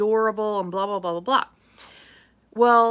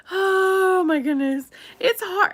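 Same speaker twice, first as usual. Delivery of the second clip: laughing recovery; 9 semitones higher, 4 dB louder, slower than usual. Real, not acted.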